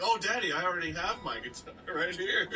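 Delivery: lightly voiced little show-off; a hint of a laughing, coy child; eager guitar kid. Child already holding guitar for Daddy, mildly coy.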